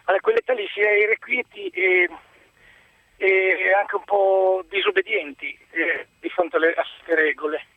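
panting while climbing uphill; breathless, mid-hike on a slope; out of breath. Real, not acted. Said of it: "scusate il fiatone perché sono in salita".

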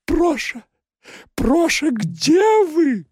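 high, tender, slightly nasal call after crying; tender tearful call. Acted. Secretary calling for her vanished boss, tender and tearful. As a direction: call him sweetly through tears. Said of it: "музыкальным, нежным голосом".

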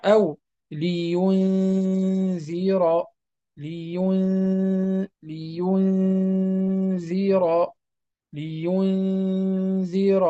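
لينذر with the ن held nasally before ذ; slow nasal ghunna. Shown as a demonstration. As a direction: stretch لينذر slowly through the nose. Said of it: "واضح".

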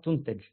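تنتج as "tuntaj", with u then a; correct form demo. Shown as a demonstration. Teacher stating what is said, تنتج pronounced tuntaj. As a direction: say تنتج as tun-taj, passive vowels. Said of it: "يقال".

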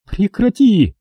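high woman's cry of protest; a high, tearful woman shouting him down; Sonya, outraged. A narrator's reading. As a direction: stop him dead, high and hurt.

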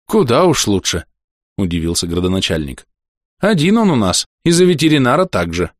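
a hint of a kindly fretting old mayor; old man voice. Старик удивляется. (лёгкий голос суетливого старика)

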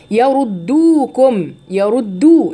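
slow chanted يردوكم with a full rounded oo after د; ضمة تامة. Shown as a demonstration. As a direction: hold the damma of يردو clearly. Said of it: "انتبهوا لضمة الدال". (يردوكم بضمة دال تامة ممدودة)

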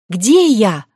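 kitten voice. Acted. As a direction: squeak it out like a kitten. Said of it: "пищал я, как котёнок".

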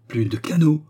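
loud, high shocked echo; yelled. A narrator's reading. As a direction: yell it in disbelief. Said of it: "hurla le baronnet". (cri fort, stupéfait)

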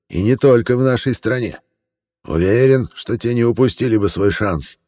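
lightly voiced cheerful old man; friendly old man. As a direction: gush like a sugary old gentleman. Old man praises drawings.

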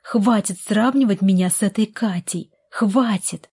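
half-shriek it in anger. Acted. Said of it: "взвизгнула Карина".

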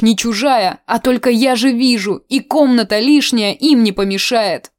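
rustic auntie's lament; complaining old aunt. Acted. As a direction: pity yourself like a lonely widow.

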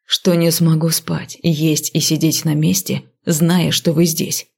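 low, slow irritated confession; grudging, exasperated admission. Acted. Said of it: "Ещё более раздражённо".

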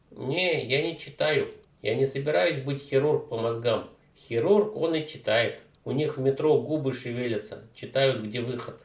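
put-on slangy street teen, loud and cocky; a brash teenage punk mangling words; дерзкий уличный парень. Street kid voice. (громкий развязный подросток)

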